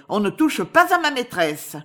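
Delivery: protestation forte et aiguë; défendre sa maîtresse en criant; cri indigné. Acted. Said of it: "cria-t-elle". (Europe défend sa maîtresse, criant d'indignation)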